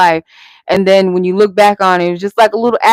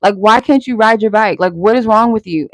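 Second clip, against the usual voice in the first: frustrated self-scolding; 3 semitones higher than usual. Retold or imitated. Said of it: "I was so frustrated with myself".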